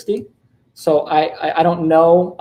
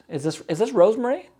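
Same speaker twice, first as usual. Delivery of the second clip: higher, questioning demo of the opener; high-pitched; 4 semitones higher, 4 dB quieter than usual. Shown as a demonstration. Coach demoing his cold-call opener, high-pitched. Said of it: "high-pitched".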